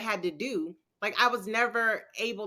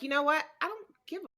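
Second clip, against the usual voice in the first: a higher, defiant brush-off; tough defiance; 4 semitones higher, faster than usual. Retold or imitated. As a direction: shrug it all off, acting tough. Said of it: "and I'm like".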